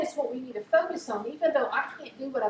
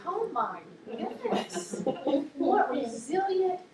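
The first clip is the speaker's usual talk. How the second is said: choking up; 4 semitones higher, slower than usual. Real, not acted. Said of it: "I cry with my clients".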